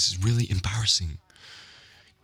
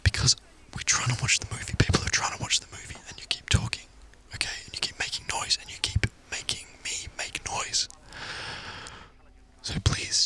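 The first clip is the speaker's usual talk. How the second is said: firm whisper, getting softer; stern whisper; 4 semitones higher, 5 dB quieter than usual. Acted. To the noisy date during the movie, stern whisper. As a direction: lay out the complaint without being heard.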